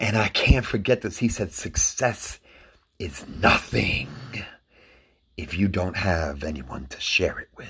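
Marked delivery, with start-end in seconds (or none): 1.5-7.7 silky, smooth, buttery, soft delivery. Quoting a line you cannot forget, repeat how he said it in a smooth, buttery Billy Dee voice. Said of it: "In that smooth blue suede butter Billy Dee way".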